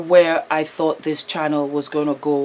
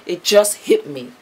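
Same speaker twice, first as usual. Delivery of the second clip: emotional; 4 semitones higher than usual. Real, not acted. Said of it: "I'm getting emotional".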